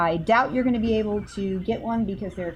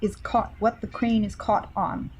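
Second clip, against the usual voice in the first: calling to pet; 3 semitones higher than usual. Acted. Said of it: "call on Jelly and say".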